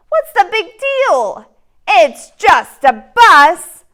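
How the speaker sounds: loud, whiny pigeon begging; the pigeon begs and pesters the reader; pleading pigeon. Acted. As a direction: wheedle like a pushy little bird.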